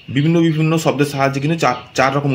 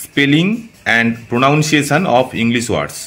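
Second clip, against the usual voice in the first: slow title read; much slower than usual. Shown as a demonstration. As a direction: read the title out very slowly, word by word. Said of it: "শিখবো আজকে".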